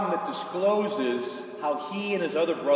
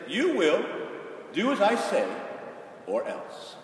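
stern patriarch; 3 semitones higher than usual. Retold or imitated. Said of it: "Every ancient patriarch said".

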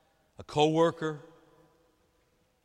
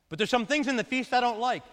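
higher, whiny excuse of a reluctant listener; reluctant son; 7 semitones higher, 4 dB louder than usual. Acted. Reluctant churchgoer answering God's invitation, mildly whiny. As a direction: make the excuse sound petty.

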